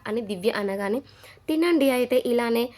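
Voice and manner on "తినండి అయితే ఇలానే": irritated. Retold or imitated. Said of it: "చిరాకు పడింది మాధురి".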